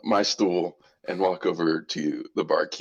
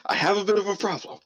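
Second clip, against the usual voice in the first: rabbit voice; 12 semitones higher, faster than usual. Acted. Rabbit character admits a problem.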